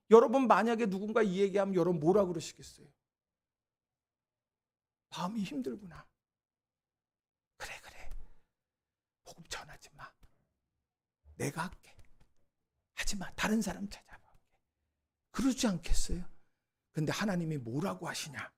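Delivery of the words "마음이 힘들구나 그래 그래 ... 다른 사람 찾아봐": much softer, hushed, almost whispered comfort; gentle consoling. Pretend. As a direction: soothe a worn-out friend quietly. Imagined gentle reply to hurt prophet.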